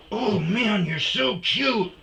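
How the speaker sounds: man gushing over his dog in pet voice. Real, not acted. Cooing at his dogs.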